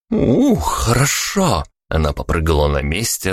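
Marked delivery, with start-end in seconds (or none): 0.1-1.6 pleased. A narrator's reading. Vika pleased, stretching.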